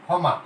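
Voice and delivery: ক্ষমা said as খমা, push on the opening sound; stressed first syllable. Shown as a demonstration. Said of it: "এইরকম কিন্তু উচ্চারণ হচ্ছে". (ঝোঁক দিয়ে ক্ষমা)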